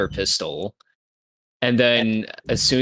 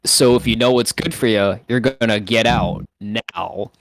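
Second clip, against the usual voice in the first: intimidation; 3 dB louder than usual. Acted. In-character threat to intimidate the Jawas.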